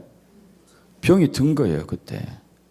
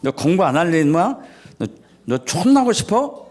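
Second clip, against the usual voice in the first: scolding parent. Retold or imitated. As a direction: snap at the child in a mild mock rage. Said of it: "이런 상태가 있을".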